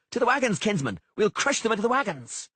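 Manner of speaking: high, loud rallying yell; yelled order. A narrator's reading. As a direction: keep the men charging, full voice. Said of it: "Sheepbagger yelled".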